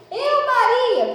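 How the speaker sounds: high, loud, drawn-out acted call; loud self-announcement. Believer presenting herself to the Lord, loud announcement. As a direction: announce your name slowly and boldly in prayer.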